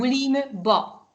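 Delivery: slow, separated "Boulimba"; teacher's careful slow "Boulimba"; slow model pronunciation. Shown as a demonstration. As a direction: say "Boulimba" in slow, clear chunks. Teacher repeats word for learner.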